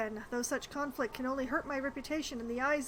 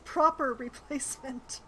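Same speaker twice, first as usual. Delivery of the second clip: sarcastic air-quote emphasis; 4 dB louder than usual. Retold or imitated. Mocking the title as a player reads it. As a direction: lean on it with mock quotation marks. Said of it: "I love the air quotes".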